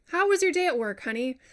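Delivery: mock spouse asking. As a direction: play a cheery partner greeting. Acted couple small talk.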